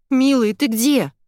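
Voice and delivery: loud, slow, panicked yell. A narrator's reading. Wife yells to the colonel on the phone, slow frightened shout. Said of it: "заорала я".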